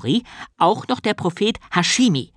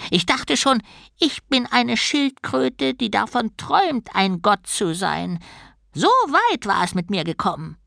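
higher-pitched, hard-done-by turtle god; lightly voiced aggrieved turtle; 8 semitones higher than usual. Turtle laments three years unheard, mildly aggrieved. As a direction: complain as a baffled little god, pitched up.

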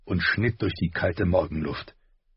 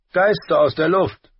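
higher, louder hammed-up cry; mock alarmed Hound; 10 semitones higher, 7 dB louder than usual. A narrator's reading. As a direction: pretend to be spooked. Hound mocks, playacting.

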